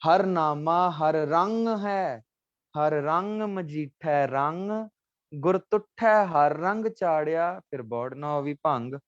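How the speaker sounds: slow reverent recitation of the line; recited scripture. Shown as a demonstration. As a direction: intone the Gurbani line slowly. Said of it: "वो पंक्ति सुना देता हूँ". (गुरबाणी की पंक्ति धीरे, श्रद्धा से पढ़ना)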